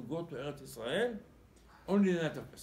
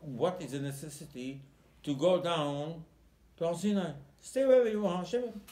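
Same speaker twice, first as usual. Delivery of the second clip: indignant protest; 4 semitones higher, 6 dB louder than usual. Acted. Indignant rhetorical challenge to Hashem.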